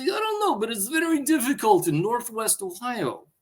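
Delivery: high-pitched put-on Russian accent; annoy them with a mock Russian accent. Answering people who ask about work, mock Russian accent. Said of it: "I speak with a Russian accent".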